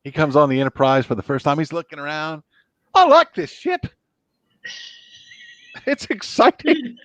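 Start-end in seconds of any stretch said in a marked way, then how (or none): 2.9-7.0 very high Scottish engineer; high-pitched, gleeful Scottish impression; Scotty. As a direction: marvel at the ship in an excited Scottish accent. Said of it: "there's the current Scotty".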